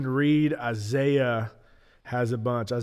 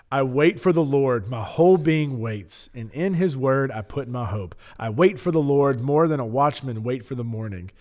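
dramatic reading. Acted. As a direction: read it like a solemn psalm. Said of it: "I'm gonna read that one more time".

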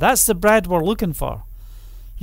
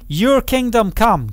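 drawn out, each word weighted and higher; slow proclamation; 4 semitones higher, 3 dB louder than usual. Shown as a demonstration. Preacher leading the flock in a slow proclamation. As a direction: proclaim it slowly with authority. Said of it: "Just shout it out".

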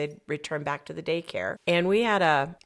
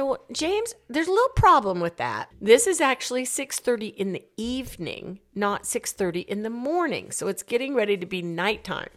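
gentle correction; 5 semitones higher than usual. Retold or imitated. Gently correcting confused man.

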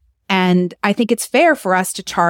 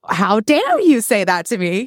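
mock indignant.

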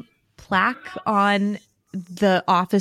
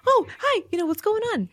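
high, chirpy hello to anybody; bubbly greeting; 12 semitones higher than usual. Retold or imitated. Greeting strangers, she mimics herself in a high chirpy voice. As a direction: bounce up into a sing-song hi. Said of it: "and because I'm like".

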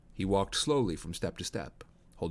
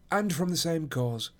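higher, assured detective voice; Holmes; 8 semitones higher than usual. A narrator's reading. Holmes explains the dug-up grounds, assured higher voice. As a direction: state it with authority, pitched up.

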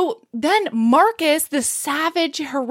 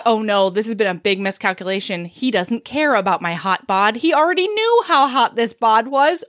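mounting mock dismay; 3 semitones lower than usual. Heroine realizing her plan backfired, mock dismay building. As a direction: build from muttered worry to hammed-up dismay. Heroine's dawning panic, acted out.

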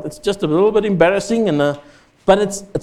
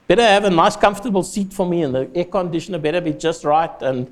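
mock selfish Jonah. Preacher voicing selfish Jonah.

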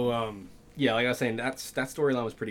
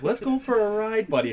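mock calm; 9 semitones higher than usual. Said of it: "She tries to play calm".

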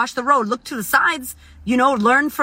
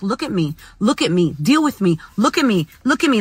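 a hint of a whiny toddler demanding attention; pain as a toddler. Her pain nagging her like a toddler in a tantrum. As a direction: voice her pain as a little child pleading to be seen. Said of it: "like a little toddler, like throwing a tantrum".

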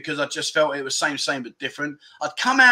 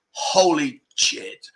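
stunned disbelief; 2 semitones lower, much slower than usual. Retold or imitated. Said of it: "and you're like".

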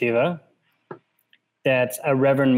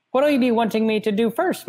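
matter-of-fact; 9 semitones higher than usual. A narrator's reading. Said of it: "in matter-of-fact tones".

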